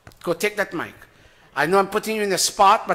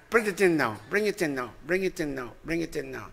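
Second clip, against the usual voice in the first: repeats growing steadily softer; fading instruction; 6 dB quieter than usual. Shown as a demonstration. Preacher directs the boy's hands inward, fading instruction. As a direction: shrink the voice with each repeat.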